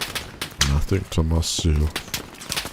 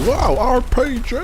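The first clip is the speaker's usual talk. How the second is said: much higher, louder warning shout; excited shout; 4 dB louder than usual. Real, not acted. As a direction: yell out the threat in alarm. Spots enemy rocket launcher.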